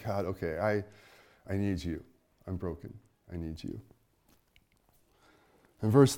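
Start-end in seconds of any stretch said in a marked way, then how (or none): 0.0-3.8 humble quiet prayer. Acted. Humble prayer voiced as example.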